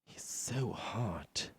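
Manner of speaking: swooning fan. Retold or imitated. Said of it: "everyone's like".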